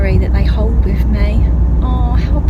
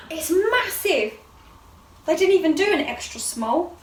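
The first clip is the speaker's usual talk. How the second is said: laughing; 8 semitones higher, 11 dB quieter than usual. Real, not acted. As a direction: laugh the words out. Laughing at huge outfit.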